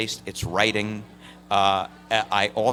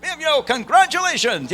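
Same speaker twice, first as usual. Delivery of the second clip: much higher and louder, squealing with joy; thrilled woman; 7 dB louder than usual. Retold or imitated. Woman on the phone hearing she won, overjoyed squeal. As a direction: shriek like she just won. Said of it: "the woman's like".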